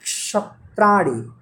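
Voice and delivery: slow क्षत्राणि with clear half क and श; slow careful pronunciation. Shown as a demonstration. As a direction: draw out क्षत्राणि slowly. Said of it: "यानी आधा क और श". (क्षत्राणि धीरे और साफ़ बोलें)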